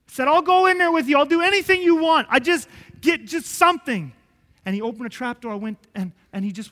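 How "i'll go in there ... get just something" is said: high, loud eager pleading; urgent surrender. Retold or imitated. Man answering God's offer with a loud, eager plea. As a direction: throw yourself into the promise. Retelling his answer to God.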